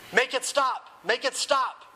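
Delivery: high, desperate repeated plea; acted wailing moan. A narrator's reading. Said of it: "moaned Dumbledore".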